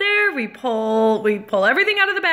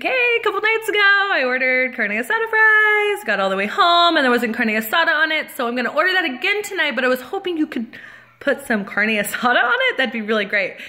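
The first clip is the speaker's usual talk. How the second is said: sweet, high-pitched opening to a polite request; being nice; 3 semitones higher, faster than usual. Retold or imitated. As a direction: politely retell a friendly order, starting high. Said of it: "I'm being nice".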